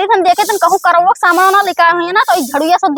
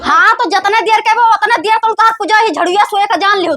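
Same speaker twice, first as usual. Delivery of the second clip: shouting; 3 semitones higher than usual. Acted. Wife scolds husband over puja things.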